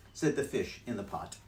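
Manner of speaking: ordinary delivery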